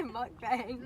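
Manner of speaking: mukbang said slowly, MUK-bang; own way of saying mukbang. Shown as a demonstration. Friends asked how she says the word, slow careful mukbang. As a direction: draw out mukbang deliberately. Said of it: "how do you say it".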